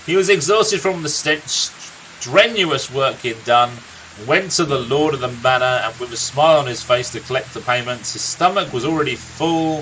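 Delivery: a lightly voiced grizzled old storyteller, unhurried; a gruff old warrior recounting his friend's youth; storyteller NPC. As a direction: tell the tale like a weary veteran by the fire.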